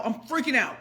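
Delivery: tearful, high and soft; a choked-up little wail; freaking out crying. Real, not acted. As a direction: near tears, voice breaking.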